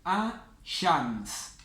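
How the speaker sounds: 'A Shams' with a long doubled sh, no L; doubled first letter. Shown as a demonstration. Teacher demonstrates the solar rule, doubled sh in 'A Shams'. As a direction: hold the sh in 'A Shams'. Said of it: "la vamos a pronunciar doble".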